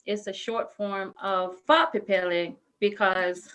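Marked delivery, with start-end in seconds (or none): 1.7-2.5 "Fa'apipele" said the native Samoan way; "Fa'apipele" with every syllable sounded, ending in "le"; proper name pronunciation. Shown as a demonstration. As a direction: say "Fa'apipele" correctly, as its owner does. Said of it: "people can't really pronounce my name".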